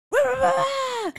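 high, loud mocking whine; mocking wah wah. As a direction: whine it like a teasing kid. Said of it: "Until someone's like".

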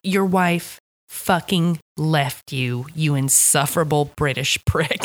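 slow, deliberate mock contempt; contemptuous insult. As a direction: spell out the insult word by word, understated. Acted cop insulting grieving man.

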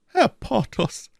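very high, slow falsetto address; procurator's wife. Acted. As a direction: slowly call him in a high lady's voice. Voices the offended wife. (langsam, in hoher Frauenstimme)

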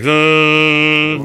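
long held wordless drone; imitated muddy drone. Guitarist imitating fast notes in big hall, droned. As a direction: blur of notes as one steady hum. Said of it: "it just sounds like".

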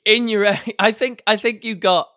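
laughing through words; giggling as you speak. Real, not acted. Laughing at the bad joke.

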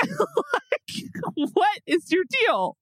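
laughing then high indignant question; mock indignation. Wife retelling anger at husband, high mock indignation.

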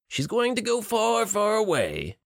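high, taunting sing-song lilt; mocking sing-song. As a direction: tease it like a cruel nursery rhyme. Villain mocks captive's fate.

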